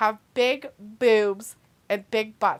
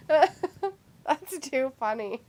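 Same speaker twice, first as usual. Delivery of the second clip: laughing; 4 semitones higher, much slower than usual. Real, not acted. Still laughing.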